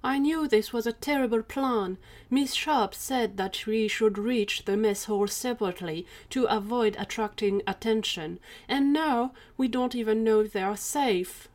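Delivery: mildly whiny complaint; a touch of whine, lifted at start and end; whining. Acted. Gary complains about the failed plan, mildly whining. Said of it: "Gary started whining".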